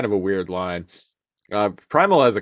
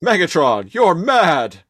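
dramatic accusation; 8 semitones higher, 5 dB louder than usual. Retold or imitated. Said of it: "acting the accusing hero line".

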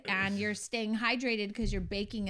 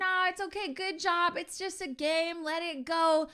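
higher, chirpy mock-consoling voice; mock cheery encouragement; 8 semitones higher than usual. Wife mocking husband's golf-course pep talk, sing-song. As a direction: parody a relentlessly upbeat cheerleader. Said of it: "someone's like".

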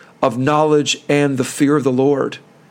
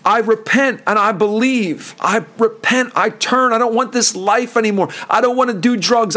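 higher, earnest voice of a sinner giving up; pleading confession; 6 semitones higher than usual. Retold or imitated. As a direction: pour it out like a man at the end of his rope. Sinner voiced turning to God.

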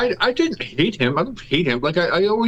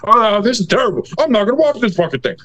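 mock complainer; 5 semitones higher than usual. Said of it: "listen to these motherfuckers complain".

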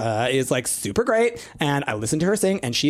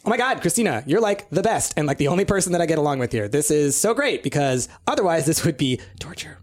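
gushing fan voice. Acted.

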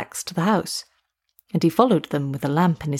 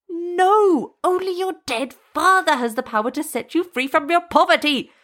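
put-on high, strained old man's denial; fearful witch doctor; 9 semitones higher than usual. A narrator's reading. Witch doctor insisting only the father can help, high and strained. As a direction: hold him off with a high, scared voice.

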